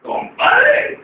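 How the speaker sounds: grito muy agudo y fuerte; llámalo a gritos agudísimos; grito llamando. Acted. (grita muy agudo llamando al compadre)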